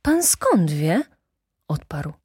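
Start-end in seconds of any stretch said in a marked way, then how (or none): 0.0-1.0 slow, higher-pitched amazed question; baffled, drawn-out query; utmost astonishment. A narrator's reading. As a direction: stretch the question out in wonder. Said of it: "malowało się najwyższe zdumienie".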